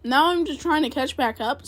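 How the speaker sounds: talking around ice in mouth; words round a mouthful of ice; mouth full. Real, not acted. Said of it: "Sorry, I have ice in my mouth".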